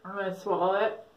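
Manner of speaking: talking with food in mouth; mouth full. Real, not acted. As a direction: speak through a mouthful, nose plugged. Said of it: "I chew it in my mouth with my nose plugged".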